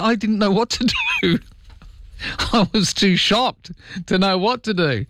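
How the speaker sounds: high-pitched, laughing protest; amused helplessness. Retold or imitated. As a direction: retell your own shock through a laugh. Retelling own helpless shock, amused.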